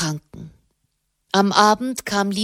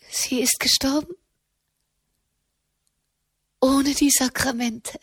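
shocked disbelief; 5 semitones higher than usual. A narrator's reading. Katharina hört vom Tod.

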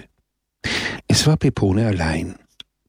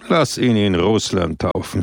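calm. Acted. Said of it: "sagte Don Camillo ruhig".

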